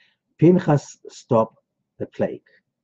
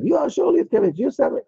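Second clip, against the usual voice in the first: much higher, imitating a shrieking caller; high-pitched mock rant at the caller; mock angry yelling; 14 semitones higher than usual. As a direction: mimic a furious woman yelling down the phone. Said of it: "she screams and she yells".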